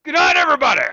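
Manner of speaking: high, loud hammed-up Cajun goodnight; Cajun accent. Host signing off to listeners in a hammed-up Cajun accent. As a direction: holler goodnight like a bayou man. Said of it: "my accent".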